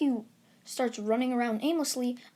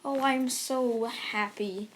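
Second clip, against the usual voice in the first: mock grandeur. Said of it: "he's like".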